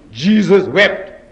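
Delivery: "Jesus wept" drawn out very slowly, word by word; very slow emphasis. Shown as a demonstration. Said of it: "Two words".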